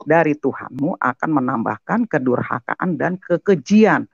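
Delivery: verse quoted in a reciting tone; measured quoted reading. Retold or imitated. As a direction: read the verse as it is written.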